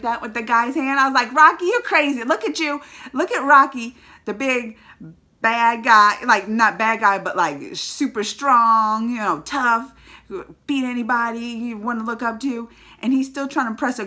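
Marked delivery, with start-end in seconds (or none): 1.3-12.7 admiring gush. Retold or imitated. Gushing at Rocky.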